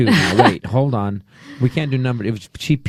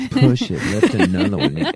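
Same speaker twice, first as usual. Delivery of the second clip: laughing trainer voice; 3 semitones lower than usual. Retold or imitated. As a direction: coach through a laugh. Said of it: "she always uses that voice".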